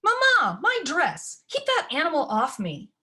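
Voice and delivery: high, loud shriek at the dog; a spoiled daughter yelling for mama. Acted. Daughter yelling at mama about the dog, high and loud. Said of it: "I heard a raised voice".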